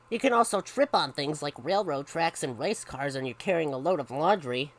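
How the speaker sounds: animated picture-book reading; lively storyteller; story narration. A narrator's reading. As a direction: read it brightly to children with punched key words. Reads a story aloud.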